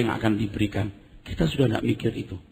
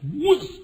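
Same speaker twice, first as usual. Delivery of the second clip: high sudden whoosh; high swooping noise; imitated swoop. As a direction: mimic the plane plunging. Imitates plane dropping and climbing.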